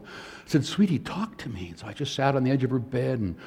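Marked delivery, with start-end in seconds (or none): 0.6-1.7 gentle coaxing. Retold or imitated. Father comforting his crying daughter.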